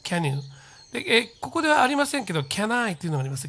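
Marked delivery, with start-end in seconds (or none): 0.0-0.4 "Can you" as one falling "kanyu", lower; low, short, joined "Can you"; linked pronunciation. Shown as a demonstration. Teacher repeats the correct "Can you", linked. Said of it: "となります".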